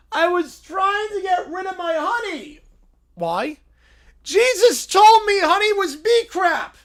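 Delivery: high, surprised little bear voice; little bear jolted awake; high cartoon bear. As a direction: squeak it out like a startled cub. Bear explains.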